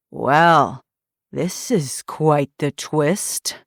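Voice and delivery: slow, dry and unbothered; dry amusement. Acted. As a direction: savor the moment coolly. Villain unfazed.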